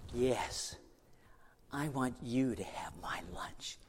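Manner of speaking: slow soft whisper; whispered offer. Acted. The little boy offering Jesus his lunch, whispered. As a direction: offer it shyly under the breath.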